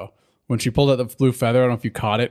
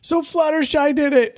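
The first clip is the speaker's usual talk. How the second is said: far higher, chirpy gotcha; excited Pinkie. Retold or imitated. Host voices Pinkie Pie blaming Fluttershy, squeaky and chirpy. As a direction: bounce up into a squeaky cartoon voice. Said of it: "Pinkie Pie's like".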